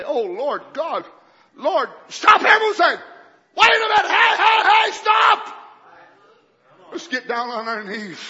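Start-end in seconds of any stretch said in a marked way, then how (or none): 0.0-5.6 high, loud mock cry to God; hammed-up halt, hey hey stop; pretend plea. Preacher acting out a plea David never made, loudly. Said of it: "instead of making him say".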